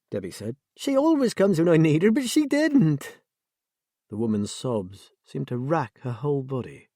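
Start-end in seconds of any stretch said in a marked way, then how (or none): 0.8-3.2 sobbing wail. A narrator's reading. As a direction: break down into a sob. Sobbing woman after wail.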